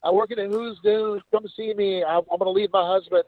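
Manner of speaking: hint of a sweet-talking woman, high; imitating Sue. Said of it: "He said".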